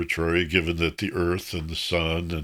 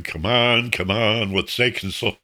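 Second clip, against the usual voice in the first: impatient; 4 semitones higher than usual. Retold or imitated. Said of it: "standing there impatiently tapping my foot".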